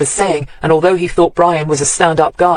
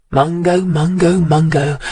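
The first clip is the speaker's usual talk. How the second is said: sadly; slower than usual. A narrator's reading. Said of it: "she said sadly".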